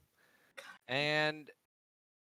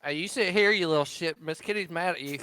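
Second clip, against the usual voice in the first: scolding; 2 semitones higher, 4 dB louder, faster than usual. Acted. Cletus scolds kid.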